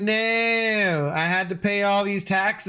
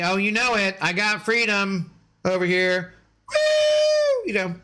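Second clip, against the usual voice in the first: mock patriot; 4 semitones higher than usual. Hammed patriotic cheer.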